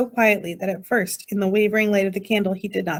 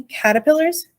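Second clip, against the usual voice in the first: high, appalled question; high fretful disbelief; wailed; 6 semitones higher, 3 dB louder than usual. A narrator's reading. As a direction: wail it as a horrified question. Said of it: "wailed Homily".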